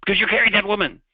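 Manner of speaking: high, mock-furious shout; angry monk. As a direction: yell it as an exasperated monk in a retold tale. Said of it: "The angry monk says".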